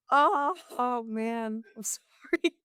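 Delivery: slow, breathy whispered sympathy, then a high sorry; sympathetic whisper. Retold or imitated. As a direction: hush it out gently, like comforting someone. Consoling a crying customer.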